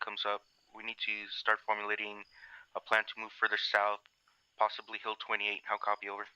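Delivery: tinny radio transmission voice; crackly military radio. Real, not acted. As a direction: speak like over a field radio. Squad leader reporting over radio.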